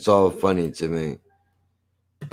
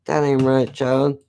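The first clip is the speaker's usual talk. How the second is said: light mock Southern accent; 3 semitones higher than usual. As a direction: put on a mild dumb Southern accent. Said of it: "it's always somebody from the South".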